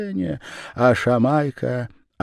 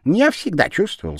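Japanese man's voice; 10 semitones higher, 3 dB louder than usual. A narrator's reading.

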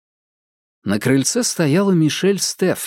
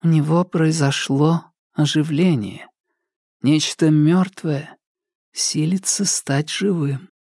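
slow, lightly voiced trance medium; a hint of speaking from a trance; seance medium; 4 semitones higher than usual. A narrator's reading. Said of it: "как медиум в трансе".

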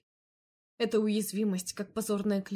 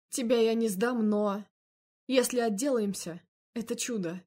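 louder, grim male voice; firm man's voice; 3 semitones higher, 4 dB louder than usual. Acted. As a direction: state the trouble firmly. Andrey's voice.

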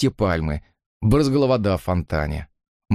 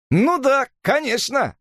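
exclaiming; slower than usual. A narrator's reading. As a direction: burst out with delight. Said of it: "воскликнул Коркоран".

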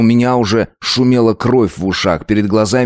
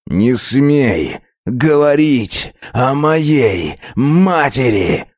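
spat out with blows; 5 semitones higher, much slower than usual. Acted. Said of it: "Выплёвывал слова в такт ударом".

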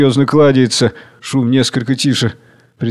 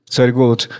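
ordinary talk

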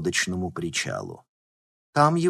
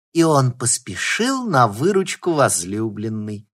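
declaiming; 2 semitones higher, 6 dB louder than usual. Acted. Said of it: "продекламировала Алёна".

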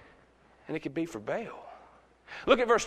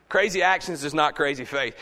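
firmer, louder restatement; emphatic repeat; 4 dB louder than usual. Real, not acted. Preacher repeats his key point to the church, emphatic. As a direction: say it out strongly so it lands.

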